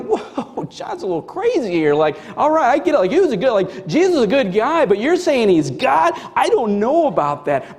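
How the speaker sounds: mock-astonished doubt; animated, doubtful pushback; sceptical listener. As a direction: concede a little, then balk. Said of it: "so you can imagine, like, in this, like, going".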